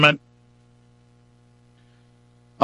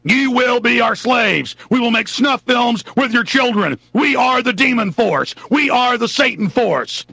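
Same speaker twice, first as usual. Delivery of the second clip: mock demon overlord; 6 semitones higher than usual. Voicing US rulers as demons.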